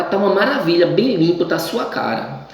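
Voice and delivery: high mock-sweet sarcasm; mother's sarcastic compliment, pitched high; ironic praise. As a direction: praise the dirty plate with biting irony. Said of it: "a gente usa esse tom irônico".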